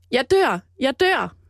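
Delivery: mock, mild, half-shouted outcry. Retelling what a woman shouted, retelling her shout. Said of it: "Og så råber hun".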